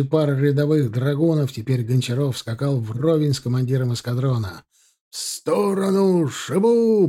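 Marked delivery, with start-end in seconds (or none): 5.1-7.1 high, slow roar. Acted. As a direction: roar them out of the way. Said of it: "проревел капитан".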